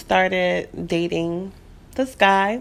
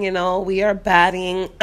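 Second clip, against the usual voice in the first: voice cracking up an octave. Real, not acted. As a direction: voice cracks on batting. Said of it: "Sorry, my voice cracked".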